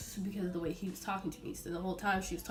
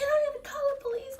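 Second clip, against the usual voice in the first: hushed, high mock threat; whispered threat; 5 dB louder than usual. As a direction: hiss the police threat. Customer threat.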